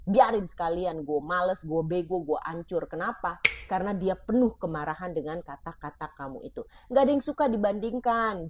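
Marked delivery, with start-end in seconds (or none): 0.1-2.9 put-on bitter child. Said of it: "karena benci banget".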